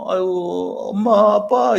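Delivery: put-on high, childlike cry of relief; relieved crying out to parents. Disciples cornered, seeing Jesus return: high childlike relief. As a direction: cry out like a child who finally sees help. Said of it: "이런 가슴 있잖아".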